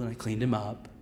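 ordinary talk, nothing marked

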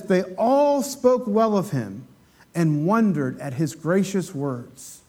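slow, measured reading of scripture; slow reverent reading. Shown as a demonstration. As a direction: read it out slowly and solemnly. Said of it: "and it says".

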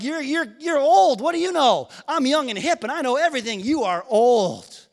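mocking young kid.

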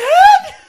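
high loud sob; wailing sob. Retold or imitated. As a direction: burst into a loud wail. Mimicking the granddaughter's wail.

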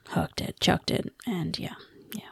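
whispered sheepish yeah. Retold or imitated. Lucy sheepishly confirming she just threw the sword, whispered. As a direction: trail off in a whisper. Continuing Lucy's sheepish admission.

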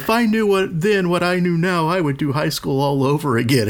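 mock nostalgic. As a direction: parody the nostalgic grown-ups. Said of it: "All those people are like".

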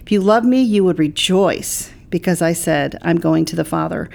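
measured, deliberate Bible reading; scripture reading. Acted. Pastor quoting John to a co-host, scripture reading. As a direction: read the verses out evenly and clearly.

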